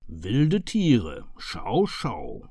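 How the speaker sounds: a touch of mock surprise, dropping low on schau, schau; surprised murmur. A narrator's reading. Murphy hearing of wild animals, mildly surprised murmur. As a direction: murmur it, mildly taken aback. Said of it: "murmelte er überrascht".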